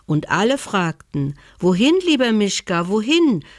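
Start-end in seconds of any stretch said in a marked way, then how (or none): 1.6-3.4 friendly animals. Acted. Animals to the bear, a higher, friendly call. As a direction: call the bear kindly as the forest folk.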